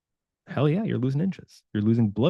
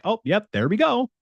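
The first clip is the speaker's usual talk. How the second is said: unbothered shrug; 9 semitones higher than usual. Pretend. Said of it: "you're like".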